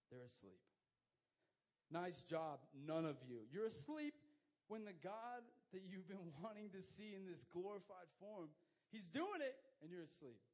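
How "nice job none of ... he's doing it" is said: loud, incredulous telling-off; mock scolding. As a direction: scold the sleepers, voice jumping high in disbelief. Mock scolding of sleeping disciples.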